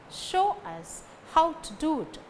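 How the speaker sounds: "Show", "how" and "do" stressed. Shown as a demonstration. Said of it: "Show, how, do carry stress".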